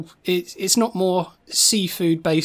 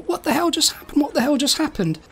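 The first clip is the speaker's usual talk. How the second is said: acted scared; 7 semitones higher than usual. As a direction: gabble it like startled onlookers. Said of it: "They're scared".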